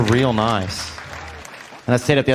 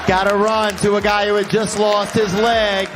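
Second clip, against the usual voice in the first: higher, slow, shouted disbelief; incredulous outrage; 7 semitones higher, slower than usual. Real, not acted. Comic outrage at reply.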